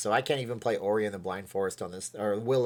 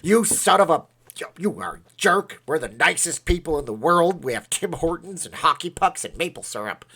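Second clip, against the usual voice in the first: mock outraged Canadian, higher and louder; angry Canadians; 6 semitones higher, 7 dB louder than usual. Streamer imitates offended Canadian viewers, loud mock outrage. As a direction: ham up an offended Canadian yelling back. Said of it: "there's a bunch of people going".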